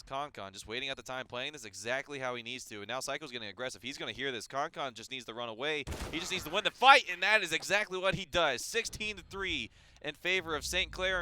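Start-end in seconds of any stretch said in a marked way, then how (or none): 6.1-11.2 loud, high win call; excited call. Acted. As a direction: shout the clincher. Round-winning call.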